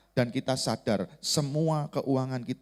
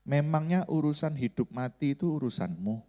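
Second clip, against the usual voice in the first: gentle voice of God. Retold or imitated. Preacher voices God questioning him in his heart, gently. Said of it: "Tuhan bicara di hati saya dengan lembut".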